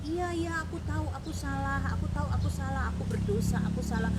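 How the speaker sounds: high, loud tearful admission; acted crying repentance; imitated crying confession. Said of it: "Terus dia nangis gitu".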